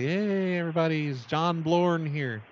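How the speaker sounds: half-hearted shout of a public announcement; mock yell-out. Shown as a demonstration. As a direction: call out to everybody without really shouting. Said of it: "can you yell out".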